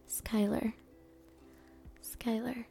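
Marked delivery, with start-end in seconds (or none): 2.0-2.6 voice crack. Real, not acted. Saying a listener's name, voice cracks. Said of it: "voice crack".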